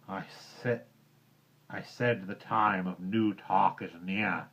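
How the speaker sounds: a touch of a growl, understated. Acted. Bagheera growls at Mowgli, mild. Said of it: "growled the panther".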